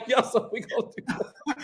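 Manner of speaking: tough guy voice. Acted. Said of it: "Now you look like a truck driver".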